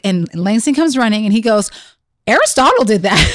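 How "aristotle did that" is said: quick tattle, a touch loud; matter-of-fact tattling. Retold or imitated. Son running in to blame his brother, matter-of-fact tattling. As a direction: imitate a child promptly blaming a brother. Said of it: "matter of fact".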